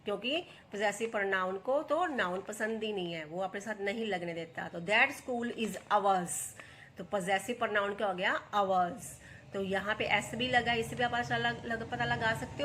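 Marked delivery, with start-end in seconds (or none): 4.8-6.3 slow reading. Shown as a demonstration. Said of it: "teacher reads example sentence".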